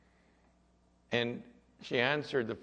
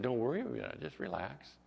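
softening, gently reassuring retold quote; calm someone down as you retell it; calming reassurance; 5 dB quieter, faster than usual. Pastor calming a panicking young woman, reassuring. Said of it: "just calmed her down".

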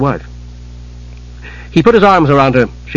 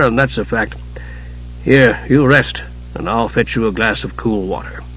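soothing; 4 dB quieter than usual. Acted. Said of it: "stroked her red hair soothingly".

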